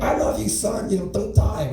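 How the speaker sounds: high-pitched, hammed-up tearful plea; tearful mom. Mom begging her son leaving for the army, mock-tearful. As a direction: imitate a mother wailing her goodbye. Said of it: "tears are fucking just streaming down her face".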